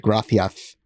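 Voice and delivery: "gracias" with a lisped th; Castilian lisp. Shown as a demonstration. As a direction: say "gracias" as "grathias". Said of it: "They'll say it like that".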